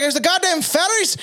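put-on high-pitched, outraged Irish accent. Brawling Irishman blames the fairies, exclaiming in Irish accent. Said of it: "The fucking Irish and Scottish are fucking fist fighting".

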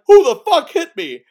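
imitated furious shout from a gangster hit in the dark; mock angry yell. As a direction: yell it like a thug punched in the dark. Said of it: "you hear Pinky's like".

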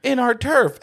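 high, drawn-out mock menace; high-pitched acted taunt of intruders; cocky invaders. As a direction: pitch it up and stretch it, hammed-up. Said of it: "are like".

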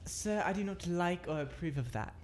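mock formal disapproval. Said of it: "Gotta say it like that".

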